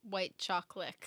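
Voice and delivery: "chocolate" with a k at the end, "choclick", low. Shown as a demonstration. Owning up to friends about the slip, "chocolate" as "choclick". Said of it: "I said chocolate".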